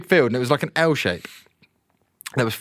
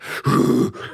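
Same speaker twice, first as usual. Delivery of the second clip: imitated annoyed dog. Telling how Phoebe reacted to cows, imitated annoyed dog. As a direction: make the noises of a dog getting wound up. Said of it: "getting a bit pissed off".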